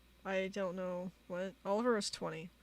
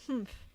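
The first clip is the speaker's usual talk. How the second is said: short higher-pitched mock humph; Oliver's humph; 4 semitones higher than usual. Reading out Oliver's repeated reply, little mock humph. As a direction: huff it briefly, higher, as if quoting. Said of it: "Why are you humphing?".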